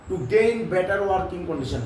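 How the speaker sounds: slow, each word laid out for copying; slow dictation. Shown as a demonstration. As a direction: dictate it slowly to the class. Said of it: "মুখস্থ করে রাখ". (ধীরে ধীরে শ্রুতলিপি)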